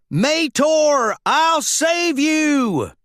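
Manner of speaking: desperate yell. A narrator's reading. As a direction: call after the helicopters. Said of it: "Mater yelled".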